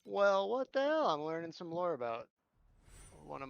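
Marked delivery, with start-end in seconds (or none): 0.0-1.1 surprised. Real, not acted. Surprised by lore.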